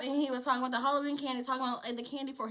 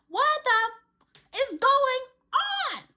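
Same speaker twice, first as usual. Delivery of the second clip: loud, high, very slow and stretched; fed-up demand; 13 semitones higher, 7 dB louder, much slower than usual. Retold or imitated. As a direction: hammer out each word, tired of asking. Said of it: "I'm tired of keep asking".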